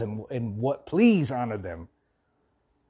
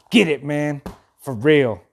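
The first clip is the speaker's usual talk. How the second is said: emphatic, somewhat louder self-rebuke; yelling at oneself; 5 dB louder than usual. Real, not acted. Host yelling at himself over his feelings, emphatic. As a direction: push yourself with a short burst. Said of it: "I'm yelling at myself".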